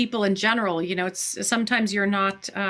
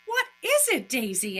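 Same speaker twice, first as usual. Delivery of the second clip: acted doctor; 3 semitones higher than usual. Acting the doctor, very high.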